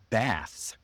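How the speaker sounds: "bath" with the open front vowel of "cat"; American short A. Shown as a demonstration. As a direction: drop the jaw for the "a" in "bath". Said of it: "with a short A sound".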